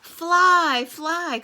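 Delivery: high urgent warning call. Acted. Birds warning the bees of a sneeze, calling out. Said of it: "called the birds to the bees".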